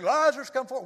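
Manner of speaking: a touch of a commanding shout; mild retold yell. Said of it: "we thought the yelling loud".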